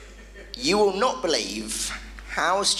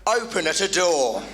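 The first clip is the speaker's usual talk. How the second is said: half-hearted American yell at a door; lightly voiced American shouting at a door; mock American shout. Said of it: "shouting ... in an American accent".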